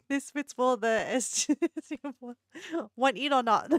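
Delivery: light mock Singaporean accent; casual pickup line in a Singaporean accent. Vlogger tries a club pickup line in a Singaporean accent. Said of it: "Singaporeans have, like, a really".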